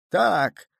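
put-on gloating old man cackling. A narrator's reading. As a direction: crow it through laughter. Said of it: "каркал сквозь смех".

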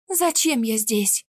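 slightly strangled, slow question; a touch of constricted unease; choked-up question. A narrator's reading. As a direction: ask slowly with a tight throat. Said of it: "сдавленно спросила".

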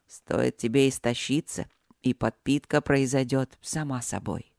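calm low rumble; low male voice. Acted. Dragon husband continues.

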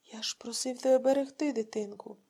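whispered grieving reproach; father whispering over his son's remains; broken whisper. Acted. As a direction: barely voice it through tears. Grieving husband reproaches wife.

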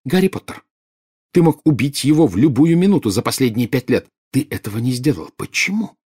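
high, insistent interrogation; accusing. A narrator's reading. Bellatrix demanding why Snape spared Harry, accusing. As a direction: press for an answer, climbing to the last word.

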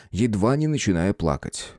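plain reading voice

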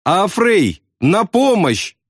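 high, desperate cry for help; almost sobbing as he shouts; near-tears yell. A narrator's reading. Wounded man yells to friend, nearly crying. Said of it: "Чуть не плача, заорал он".

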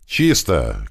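lightly acted call-out; Дима shouting. Fighter finishing off a bandit, restrained call-out. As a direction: echo the all-clear, only half shouted. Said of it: "крикнул Дима".

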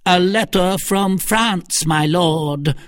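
high, slow announcing call; crying out. A narrator's reading. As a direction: servant calling out news.

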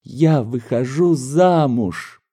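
put-on joyful young daughter. Daughter announces engagement.

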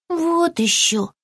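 high, slow, huffy squirrel; mildly indignant. A narrator's reading. Young squirrel refuses the lizard, high and mildly cross. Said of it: "рассердился бельчонок".

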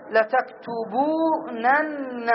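each syllable stretched slowly; slow drawn-out demo. Shown as a demonstration. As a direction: spell it out slowly for the class. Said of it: "فنقول". (ببطء ومدّ للمقاطع)

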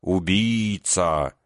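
very slow, drawn-out mock threat; mock menacing drawl. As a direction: stretch the word like a playful threat. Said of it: "грозно протянула".

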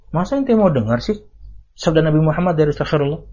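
imitating a friend who talks others out of listening, gently; sneering advice tone. Preacher imitating a jealous friend, mock caring advice. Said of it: "Nadanya tuh gitu".

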